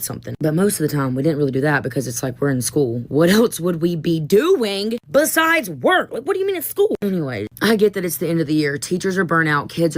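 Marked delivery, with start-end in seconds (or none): 3.1-6.9 mock whiny student. Mocking students' complaint.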